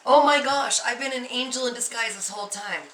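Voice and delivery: excited realization. Pretend. Imagined realization of being angel.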